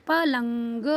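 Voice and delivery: पलंग with a long nasal, ग released after; drawn-out anusvara. Shown as a demonstration. Teacher reading another example, drawn-out anusvara. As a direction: sound out पलंग in stretched pieces. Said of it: "ऐसे ही यहाँ पे".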